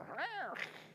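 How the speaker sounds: high harsh growl; comic fighting snarl in a high pitch; mock snarl. Couple flipping from love you to fighting, mock snarl.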